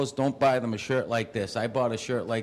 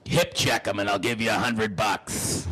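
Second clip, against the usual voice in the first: put-on old lady; 3 semitones lower than usual. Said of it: "The old lady's sitting there".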